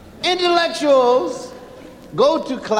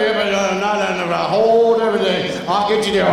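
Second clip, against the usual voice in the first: pleading; 4 semitones lower, faster than usual. Acted. Panicked husband stalling wife.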